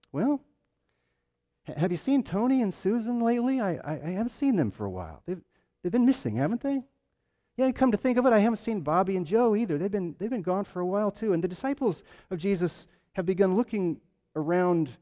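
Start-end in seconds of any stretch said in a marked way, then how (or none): 0.1-11.3 lightly voiced, higher chatty gossip over coffee; a hint of a worried churchgoer comparing notes; gossiping disciple. Disciples over coffee trading news, lightly voiced higher gossip. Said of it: "imagine some of the disciples over coffee one morning saying".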